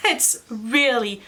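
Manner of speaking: washing machine running in background; machine noise behind. Real, not acted. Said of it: "sorry about the machine, doing laundry".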